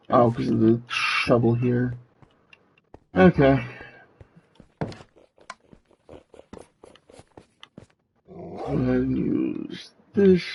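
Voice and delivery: distorted robot demon voice filter. Real, not acted. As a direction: talk through a robot demon voice effect. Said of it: "There's the demon voice for the next ten minutes".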